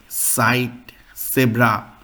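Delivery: sight and zebra as German words opening on Z. Shown as a demonstration. Teacher giving German examples of Z, careful pronunciation. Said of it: "so same is there in German".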